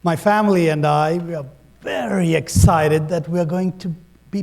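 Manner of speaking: lightly voiced grand ad narrator; tourism ad. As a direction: read it like a travel commercial. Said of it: "You sound like an Indian tourism ad".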